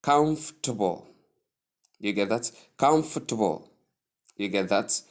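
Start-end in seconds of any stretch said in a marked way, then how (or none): 0.0-1.1 higher COMFORTABLE as KUMF-tuh-bul; correct pronunciation. Shown as a demonstration. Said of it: "The correct way sounds more like". 2.8-3.7 COMFORTABLE as KUMF-tuh-bul, falling; correct pronunciation. Shown as a demonstration. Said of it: "The correct way sounds more like".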